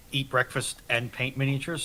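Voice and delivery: ordinary talk, nothing marked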